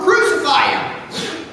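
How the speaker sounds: crowd shouting. Acted. The crowd demands it of Pilate, a slow insistent shout. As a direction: drag out "Crucify him!" like a crowd demanding it. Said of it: "they shouted all the more".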